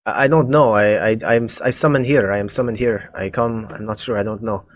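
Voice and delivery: put-on halting, light Russian accent. Captive cultist answering the party's questions, Russian accent. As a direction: stammer it out with a slight Russian accent. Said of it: "a Russian, little bit of a Russian accent".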